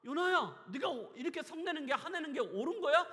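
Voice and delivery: loud, high voicing of God rebuking; God's voice. God rebuking Jonah, loud and high. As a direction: call out 요나야 like a scolding father. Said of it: "하나님 말씀하시잖아요".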